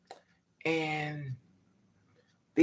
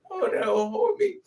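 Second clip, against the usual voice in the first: laughing; 4 dB louder than usual. Real, not acted. Laughing punchline.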